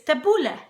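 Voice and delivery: tabbouleh ending in a short eh, stress on BOO; correct pronunciation. Shown as a demonstration. Cook teaching viewers her favorite salad's name, correct pronunciation. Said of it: "is how you pronounce it".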